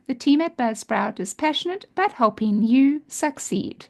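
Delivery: steady upbeat ad read. Acted. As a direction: read it like a sponsor spot. Reads a sponsor ad.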